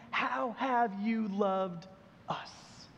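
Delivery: hurt question. Retold or imitated. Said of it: "question behind the question".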